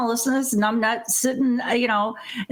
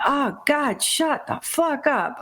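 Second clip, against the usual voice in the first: higher, drawn-out mock exasperation; exasperated plea; 4 semitones higher, slower than usual. Podcaster reacting to the commentator's chatter, exasperated. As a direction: drag the words out, acting fed up.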